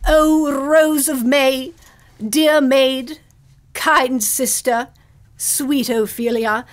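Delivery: slow, fond stage recitation; tender Shakespeare. Acted. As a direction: linger over each line as Laertes. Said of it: "Oh, I do love Shakespeare".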